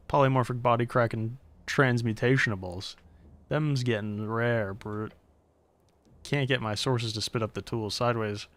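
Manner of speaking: put-on half-hearted dealer accent; a hint of a shopkeeper accent; odd NPC accent. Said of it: "What is this accent".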